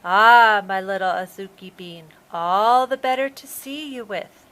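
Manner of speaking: honeyed voice hiding a shark; sweet fake grandma. A narrator's reading. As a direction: sweeten it, the wolf in granny's bed. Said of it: "in a sweet voice".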